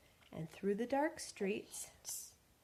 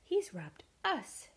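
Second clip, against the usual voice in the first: slow raised "He's robbed us"; indignant shout; 6 semitones higher, slower than usual. Acted. Bert shouts at the robber, indignant. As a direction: call it out angrily. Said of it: "shouted Bert".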